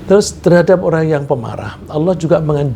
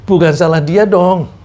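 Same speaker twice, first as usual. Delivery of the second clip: emphatic protest; 6 semitones higher, 6 dB louder than usual. Real, not acted. Emphatic sermon point.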